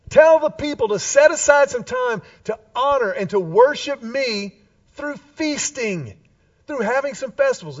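playful, emphatic divine announcement; God's voice, paraphrased. Acted. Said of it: "God says".

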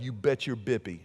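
a low, chuckling "you bet"; laughing reply. Retold or imitated. Dad answering his sensitive little son, laughing. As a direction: tease him through a laugh. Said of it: "I'd be like".

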